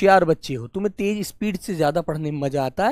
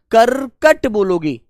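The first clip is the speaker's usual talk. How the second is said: slow, clear teaching; 4 dB louder, slower than usual. Shown as a demonstration. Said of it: "क्या बोलोगे बेटा?".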